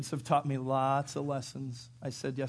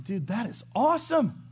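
excited praise; 6 semitones higher, 5 dB louder than usual. Retold or imitated. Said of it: "It's like".

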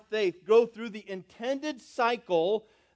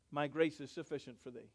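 solemn quote; 6 semitones lower, 13 dB quieter than usual. Acted. Quoting Jesus' answer.

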